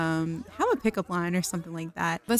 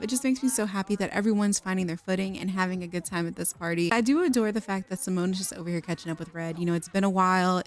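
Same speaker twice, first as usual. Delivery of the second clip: ordinary delivery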